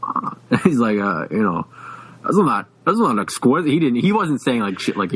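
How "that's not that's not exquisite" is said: mock upper-class lockjaw accent; imitated upper-class accent. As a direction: imitate a genteel customer's Boston Brahmin accent.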